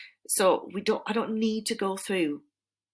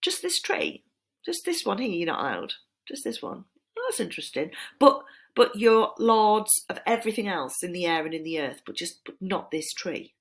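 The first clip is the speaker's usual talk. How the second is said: snake. Acted. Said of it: "the snake turns round and says".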